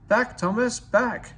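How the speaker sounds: high, loud call to reverse the engine; urgent call. Acted. Driver calling the stuck engine to reverse, loud urgent shout.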